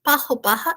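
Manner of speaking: "pajo, paja" with the j as a breathy h; Spanish j in "pajo", a throaty h; J as aspirated R. Shown as a demonstration. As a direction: say "pajo, paja" like "paho, paha". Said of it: "esse J como se fosse o nosso R R".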